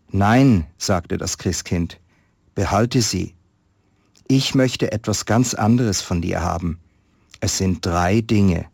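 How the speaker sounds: calm storyteller reading a Christmas tale; story narration. Acted. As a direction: read it like a story to listeners. Reads a Christmas story aloud. (Weihnachtsgeschichte vorlesen, ruhig erzählend)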